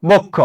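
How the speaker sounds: বক্ষ with both vowels rounded to o; o-ending pronunciation. Shown as a demonstration. Teacher repeats the answer, o-ending pronunciation. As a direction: say বক্ষ as bok-kho. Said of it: "তাহলে এটা উচ্চারণে ও হয়ে যাবে".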